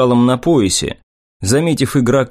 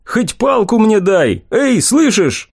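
much higher, slow desperate plea; panicked begging; 10 semitones higher, slower than usual. Acted. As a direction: beg in rising panic.

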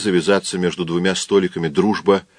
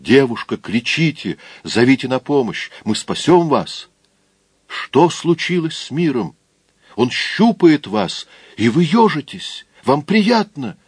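higher, urgent appeal; drunken rescue plea; 4 semitones higher than usual. Acted. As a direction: urge her to flee. Drunk pleading to the girl.

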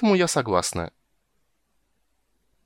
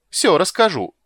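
gloating squeal; 9 semitones higher, 8 dB louder than usual. Acted. Rat threatens to tell.

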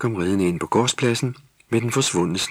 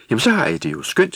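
smiling; 12 semitones higher, 4 dB louder, faster than usual. A narrator's reading. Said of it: "smilede Tulle".

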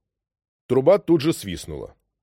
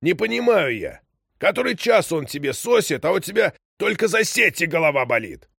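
angry; 8 semitones higher than usual. A narrator's reading. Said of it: "Дед вдруг рассердился".

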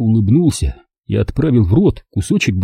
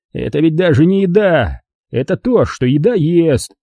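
lightly raised joking voice; joking guest; 5 semitones higher than usual. Acted. Kurt teases the boy about his soup, lightly raised. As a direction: tell the joke with relish.

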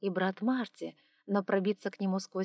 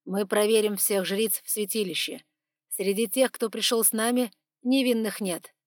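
firm, louder commanding man; stern male voice; 2 semitones higher, 6 dB louder than usual. Acted. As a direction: lay down the law. Dragon demands to check priestesses.

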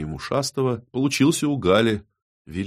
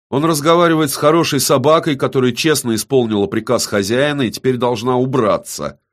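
measured; 6 semitones higher, 5 dB louder than usual. A narrator's reading. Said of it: "размеренно произнёс".

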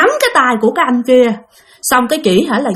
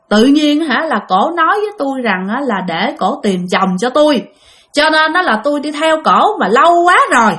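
strange possessed voice; 3 semitones higher than usual. Retold or imitated. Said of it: "cái giọng nói của chị rất là kỳ".

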